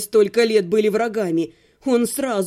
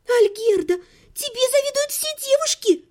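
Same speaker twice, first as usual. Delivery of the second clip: put-on much higher, gushing girlish cry; rapturous exclaim; 11 semitones higher than usual. A narrator's reading. Lidia gushes to Algerda in delight, much higher. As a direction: gush with delight. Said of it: "восхищённо воскликнула".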